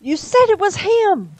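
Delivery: high, slow, absent-minded moan; moaning, distracted. A narrator's reading. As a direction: whine it while thinking elsewhere. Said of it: "moaned Aziraphale abstractedly".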